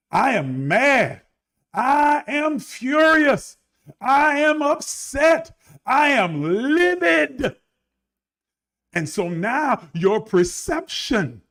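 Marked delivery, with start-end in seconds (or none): 0.1-7.6 building mock anger. Preacher acting out a listener's growing anger, slow and rising. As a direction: climb from mad to livid, each line slower.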